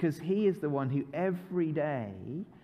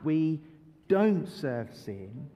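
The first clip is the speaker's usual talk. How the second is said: slow group recital; 5 semitones lower, much slower than usual. Shown as a demonstration. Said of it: "so what do we say?".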